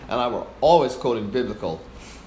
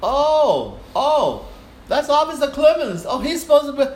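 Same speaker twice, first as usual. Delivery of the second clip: much higher, slow gushing greeting; fawning conductor; 13 semitones higher, 6 dB louder than usual. Retold or imitated. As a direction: gush sweetly to win him over. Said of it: "he started fawning on me".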